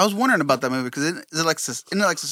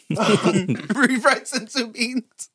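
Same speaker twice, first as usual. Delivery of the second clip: laughing; 3 semitones higher, much slower than usual. Real, not acted. Joking, laughing.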